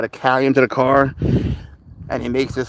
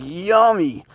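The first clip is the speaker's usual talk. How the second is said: voicing the cat; 8 semitones higher, 3 dB louder than usual. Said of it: "Pounce was like".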